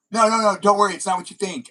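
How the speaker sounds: high, loud hurried reassuring; hammed-up cover story, all is fine; mock reassurance. Host fakes innocence to friends at a party, high and loud. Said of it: "and then I'd be like".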